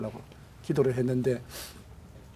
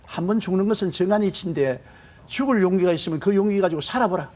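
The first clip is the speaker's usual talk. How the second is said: higher, louder commanding call; voice from heaven; 5 semitones higher, 4 dB louder than usual. Retold or imitated. God's voice thundering at the despairing pastor. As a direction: boom it out like a voice from above. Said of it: "벌떼 같은 소리가 들려와요".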